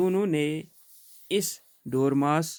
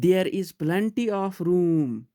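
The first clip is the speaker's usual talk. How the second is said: a slow, louder, higher snap of protest; angry; 5 semitones higher, 4 dB louder, much slower than usual. Acted. Elias protesting to the crowded table, mild anger. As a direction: push back at them, a touch cross. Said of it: "said Elias angrily".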